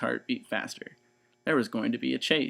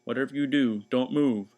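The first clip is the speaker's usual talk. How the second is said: 1 urgent order; 4 dB louder than usual. Acted. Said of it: "shouted Mister Watson".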